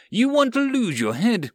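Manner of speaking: high, loud threatening snap; angry threat. Acted. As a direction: threaten him hotly. Captain threatens mate.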